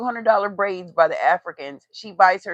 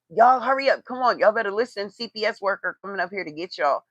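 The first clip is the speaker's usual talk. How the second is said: mock threatening mom; 2 semitones higher, faster than usual. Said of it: "she threatens her kids in Walmart, like".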